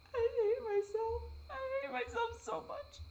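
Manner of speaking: high, slow crying voice; words wrung out through real tears; sobbing. Real, not acted. Breaking down on camera, crying out in self-hatred.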